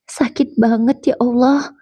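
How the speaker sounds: slow, tearful sigh of pain; trembling voice. Acted. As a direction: let the voice shake with hurt. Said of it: "Suaraku bergetar". (suara bergetar menahan sakit)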